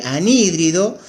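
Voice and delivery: anhídrido with clear stress on the I, an-HÍ-dri-do. Shown as a demonstration. Teacher to students showing the accent of anhídrido. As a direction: lean on the HÍ of anhídrido. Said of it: "acento en la I".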